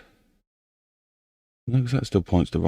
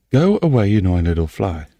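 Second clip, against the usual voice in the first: annoyed shooing. Real, not acted. Shooing a fly away.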